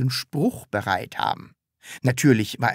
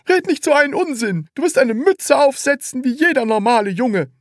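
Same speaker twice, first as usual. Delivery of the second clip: high, loud angry scolding; 12 semitones higher, 5 dB louder than usual. A narrator's reading. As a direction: snap and scold. Salesman scolding.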